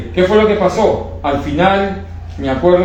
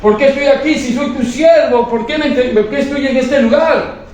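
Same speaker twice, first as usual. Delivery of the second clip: pleading to God; 9 semitones higher than usual. Retold or imitated. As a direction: plead with God, not understanding why. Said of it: "Le decía a Dios".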